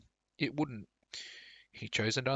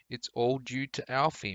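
a little out of breath; short of breath after the hug; slightly breathless; 2 semitones higher than usual. Acted. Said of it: "slightly breathless".

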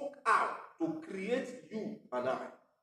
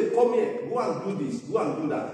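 bossy parent giving orders; parent calling; 4 semitones higher, faster than usual. Retold or imitated. Preacher voicing parents ordering a child, calling out.

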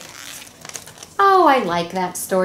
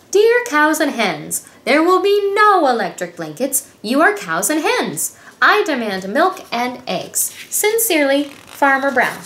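stern letter; 4 semitones higher than usual. Acted. Farmer's stern demand letter.

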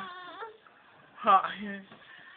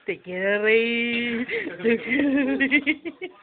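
very slow, drawn-out and louder; teasing a baby who is fighting a smile; coaxing sing-song; 4 semitones lower, 5 dB louder, much slower than usual. Acted. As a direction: drag every syllable to coax a laugh.

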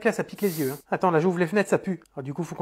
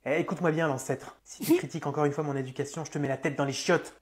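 low, contained menace; quiet threat; 3 semitones lower, 4 dB quieter than usual. Acted. Mother warning an old woman, quiet threat. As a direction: threaten without raising the voice.

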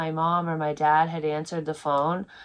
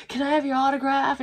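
high, rushed starstruck fan plea; mock breathless autograph request; imitated freak-out; 9 semitones higher, 3 dB louder, faster than usual. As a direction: blurt it like an overexcited fan, pitched up. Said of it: "he's, like, freaking out".

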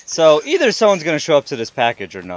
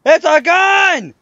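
slow, high excited cry; thrilled gun discovery; 11 semitones higher, 4 dB louder, much slower than usual. Real, not acted. Finds a gun in game.

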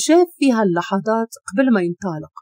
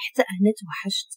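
murmured whisper; 7 dB quieter than usual. A narrator's reading. Boyfriend hugging her, speaking by her ear, hushed murmur. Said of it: "وهمس عند ودنها".

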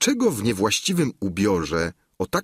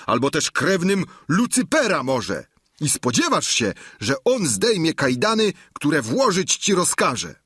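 angry; 8 semitones higher than usual. Acted. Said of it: "rzecze rozgniewany Sancho".

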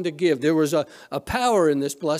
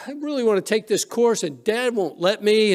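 higher-pitched retold complaint; mildly acted upset, pitched up; upset daughter; 5 semitones higher than usual. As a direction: play an upset daughter pleading to her mother. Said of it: "she's really upset".

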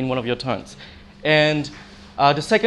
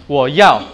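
slow "我要" with "要" dropping sharply; falling tone; 5 dB louder than usual. Shown as a demonstration. Teacher showing the falling tone in "我要", sharp drop on "要". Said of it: "Falling tone".

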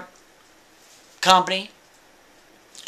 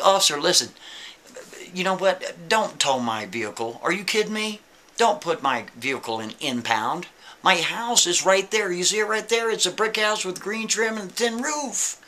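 higher pleading voice, begging the cop; pleading Kevin; 4 semitones higher than usual. Retold or imitated. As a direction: beg the officer to believe you. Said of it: "he's pleading with him".

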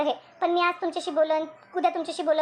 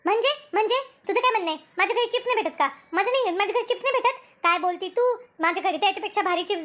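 offended retort; 3 semitones higher than usual. Acted. Acted quarrel, offended retort.

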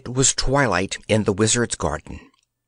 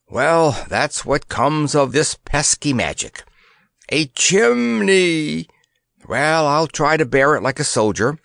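put-on grim old soldier; 4 semitones higher than usual. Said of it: "he finished grimly".

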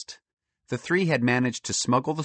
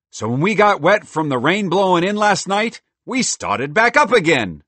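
loud, high cheerful squirrel; a bold, chatty talking squirrel; 7 semitones higher, 9 dB louder than usual. Acted. Merle boasting.

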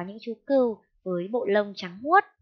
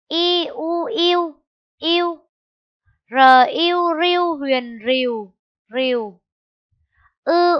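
high, loud chant of each sound; choral spelling review; 4 semitones higher, 7 dB louder than usual. Shown as a demonstration. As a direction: lead the class through the spelling. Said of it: "hãy đánh vần và đọc trơn lại một lần nữa". (đánh vần đồng thanh, cao và to)

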